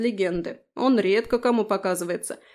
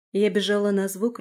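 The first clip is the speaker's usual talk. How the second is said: ordinary delivery, nothing marked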